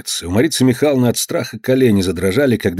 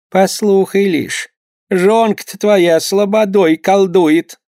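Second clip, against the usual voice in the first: put-on higher, slow fretful old mother; old mother urging her son, higher and slow; mother's warning; 10 semitones higher, 4 dB louder, much slower than usual. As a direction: lean in and accuse the wife slowly. Mother whispers accusation against wife.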